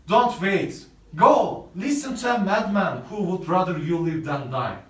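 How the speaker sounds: put-on an enraged young man daring his rival to fight; furious shout. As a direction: roar a challenge to fight. Romeo challenges Paris to fight.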